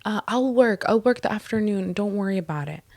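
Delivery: high-pitched grovelling imitation; mocking meek apology. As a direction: mimic a coworker backpedalling in a wimpy voice. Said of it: "acting like a little bitch about it".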